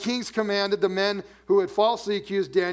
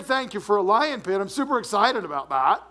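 mock sarcastic prayer; 3 semitones higher, 3 dB louder than usual. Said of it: "that's not what he said".

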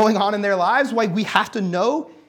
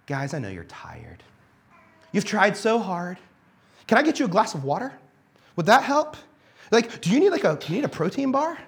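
mock coddling coach; 6 semitones higher than usual. Coach pretending to baby his lazy players, gentle mock. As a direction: sweet-talk the tired players like a pushover. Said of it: "You think that's what I told him?".

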